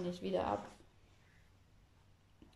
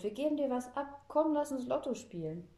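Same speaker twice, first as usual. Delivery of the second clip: high, keen coaxing; eager calling; 6 semitones higher than usual. A narrator's reading. Girl coaxing grandpa into the lottery, eagerly. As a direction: urge a partner to join in. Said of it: "ruft Fräulein Schmalzbrot".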